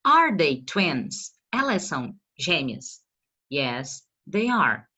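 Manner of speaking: teacher modelling the question slowly; slow model question. Shown as a demonstration. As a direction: read Are they twins word by word for the class. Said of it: "Então aqui, ó".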